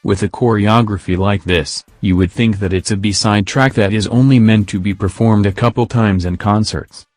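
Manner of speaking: monotone text-to-speech voice; flat synthetic robot read. Real, not acted. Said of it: "I'm using the robot voice".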